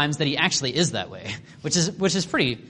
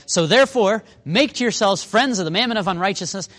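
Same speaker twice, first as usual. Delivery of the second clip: raised-pitch, mock-earnest scripture quote; sarcastic; 5 semitones higher, 4 dB louder than usual. Jesus throwing it at the Pharisees, sarcastic. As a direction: lean into the advice with light sarcasm. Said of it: "you can hear the sarcasm here".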